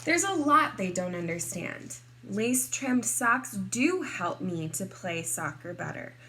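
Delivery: lively, expressive picture-book narration; story reading to children. A narrator's reading. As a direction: read it to kindergartners, playing up key words.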